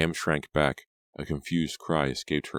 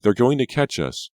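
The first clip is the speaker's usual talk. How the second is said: 1 panicked warning; 9 semitones higher, 6 dB louder than usual. A narrator's reading. Fleeing girl warns in panic.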